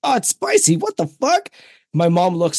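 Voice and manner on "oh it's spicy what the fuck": put-on squeaky high little-kid voice, much higher; imitating his young son. Son bites a jalapeno at Boston Pizza, squeaky high kid yelp. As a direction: pitch way up like a small boy who just bit a jalapeno. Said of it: "he bites into a jalapeno and he goes".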